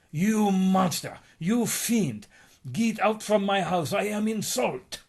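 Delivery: high, loud, slow indignant shriek; outraged shout. Acted. Insulted lady ordering the fiend out, furious shriek. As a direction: scream at him like an insulted grande dame.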